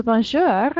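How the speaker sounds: "bonjour" finishing in a throaty French R; R on the end. Shown as a demonstration. Teacher contrasts two greetings for students, final R sounded. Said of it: "get your R on the end".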